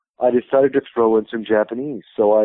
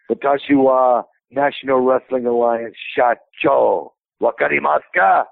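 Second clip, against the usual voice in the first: sarcastic. Retold or imitated. Wrestling heel to Japanese crowd, mildly sarcastic. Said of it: "Very sarcastic".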